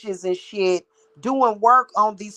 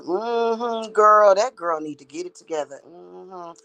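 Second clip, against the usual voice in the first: gossip imitation. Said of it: "she'll go and gossip about her".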